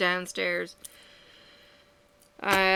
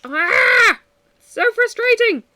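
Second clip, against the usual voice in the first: a real cry of frustration, much higher and louder; exasperated yell at the whole situation; frustrated shout; 12 dB louder, much slower than usual. Real, not acted. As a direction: let it burst out, drawn out. Both yelling, venting frustration.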